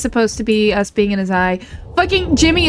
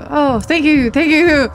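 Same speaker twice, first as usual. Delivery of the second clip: mock effusive thanks, pitched up; hammed-up thank-you bit; 4 semitones higher, slower than usual. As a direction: gush thanks over and over as a bit. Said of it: "I'm so done with the thank you bit".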